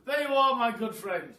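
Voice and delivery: a hint of a posh bird, lightly voiced; posh roly-poly bird. Roly-poly bird hands Mugglewump the key, light posh voice. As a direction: hand it over with lofty politeness. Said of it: "Here I go with the roly-poly bird impression".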